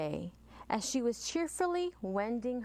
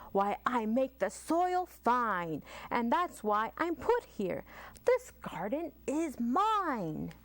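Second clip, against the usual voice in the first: lightly voiced sighing worm, slow. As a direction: drag it out like a tired worm. Worm's slow voice.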